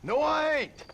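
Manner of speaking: urgent, indignant denial; emphatic denial. Acted. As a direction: call out your innocence to a hostile crowd. Denying accusation as mob threatens.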